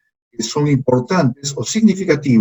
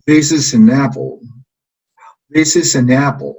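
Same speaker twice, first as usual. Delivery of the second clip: This is an apple clearly, This and apple leaned on; model for repeating. Shown as a demonstration. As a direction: say it for the class to repeat. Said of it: "Repitan después de mí".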